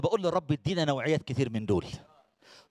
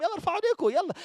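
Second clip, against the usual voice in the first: rallying call; 12 semitones higher, faster than usual. Real, not acted. Preacher calling crowd to raise hands.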